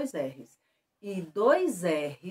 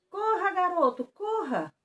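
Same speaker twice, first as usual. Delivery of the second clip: higher-pitched call to run; urging; 10 semitones higher, 3 dB louder than usual. Acted. Teacher acts out urging a boy to run, urgent.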